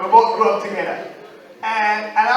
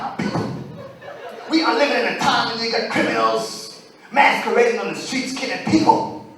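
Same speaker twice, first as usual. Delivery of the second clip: preaching. Retold or imitated. Pastor preaching to his people, mock sermon. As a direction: preach it to the flock. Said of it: "this pastor was talking so hard".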